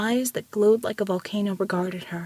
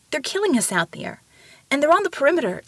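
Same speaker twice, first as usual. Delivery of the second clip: higher, insistent appeal; urgent plea; 6 semitones higher, faster than usual. A narrator's reading. Ramona telling the silent mountain of the killing, urgently. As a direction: make the danger felt. Pleading for help against attack.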